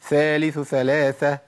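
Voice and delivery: slow, careful ث in ثالث ثلاثة; تلاوة بطيئة واضحة للثاء; clear tha sounds. Shown as a demonstration. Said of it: "tajweed demo of tha".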